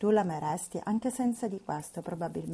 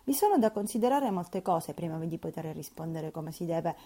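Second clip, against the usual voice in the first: mildly sententious reply. Acted. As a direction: lecture her like an old housekeeper. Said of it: "dissi sentenziosamente".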